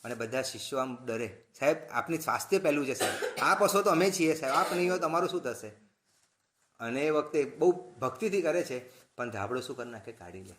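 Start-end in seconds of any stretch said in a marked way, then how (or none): 1.6-5.7 fast, earnest pleading to the guru; pleading disciples. Retold or imitated. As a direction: rush it like worried students begging. (ગુરુને વિનંતી કરતા શિષ્યો, ઝડપી આજીજી)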